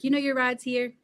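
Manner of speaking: a touch of a mock Russian accent; teasing grandpa doing his Russian accent, lightly; Russian accent imitation. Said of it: "and the Russian accent".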